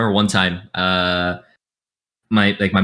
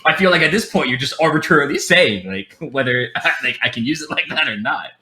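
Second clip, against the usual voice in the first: higher, louder, laughing frustration; exasperated rant; 7 semitones higher, 4 dB louder than usual. Retold or imitated. Complaining to his Hawaiian friend, higher and louder with laughter. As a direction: vent at him, half laughing.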